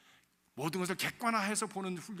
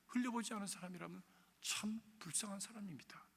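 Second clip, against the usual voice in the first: whisper; 8 dB quieter than usual. Acted. Preacher whispering a grave verdict to his listeners. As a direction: drop to a breathy hush for weight. Sermon drops to a hush.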